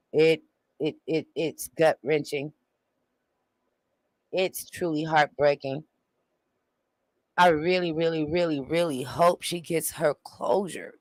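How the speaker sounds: soft, halting and heartfelt; choked up. Real, not acted. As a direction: falter quietly, really moved. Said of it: "I'm choked up".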